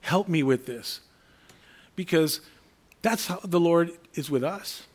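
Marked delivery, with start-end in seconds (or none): 0.0-1.0 slow, humble plea to God; slow prayer. Shown as a demonstration. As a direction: pray it slowly, asking for help. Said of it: "Your response should be".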